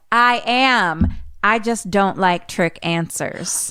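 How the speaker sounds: sharp start, then slow, a touch of a whine; offended medium. Retold or imitated. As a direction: call down, put out by the trick. Tangina calls down, offended.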